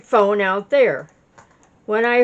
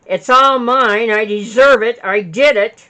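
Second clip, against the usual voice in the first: louder, angry retelling of his claim; a retold furious outburst, louder; 6 dB louder than usual. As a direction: read his furious words out hard. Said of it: "In a furious voice".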